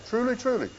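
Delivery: "Truly, truly" pitched high, without extra volume; high, insistent "Truly, truly"; emphatic. Retold or imitated. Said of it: "that's the emphatic tense".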